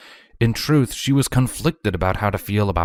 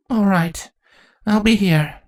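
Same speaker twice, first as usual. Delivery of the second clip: raised, higher voice calling to someone leaving; calling after him; 13 semitones higher, 3 dB louder than usual. A narrator's reading. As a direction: call it after him across the room. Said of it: "Chrysalis called after him".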